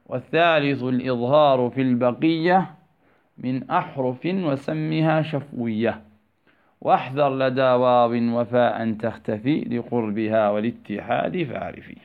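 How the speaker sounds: measured, chanted teaching poem; lilting recitation of a didactic poem; reciting verse. Shown as a demonstration. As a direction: intone the rhyming lines evenly.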